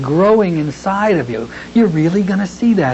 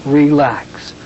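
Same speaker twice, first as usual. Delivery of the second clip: gentle relax; 3 semitones lower, much slower than usual. Shown as a demonstration. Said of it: "each time I say".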